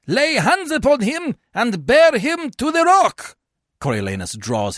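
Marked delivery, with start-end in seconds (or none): 0.1-3.4 high, slow, loud command; shouted order. A narrator's reading. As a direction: order a man seized for execution. Tribune orders execution.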